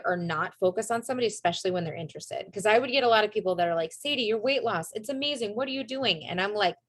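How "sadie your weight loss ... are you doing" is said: higher-pitched admirer, mildly amazed; imitated amazement. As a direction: imitate an impressed friend asking eagerly. Imitating admirers asking about weight loss.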